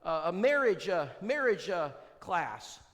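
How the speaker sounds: mild imitation of a woman caller; caller's voice. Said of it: "She said".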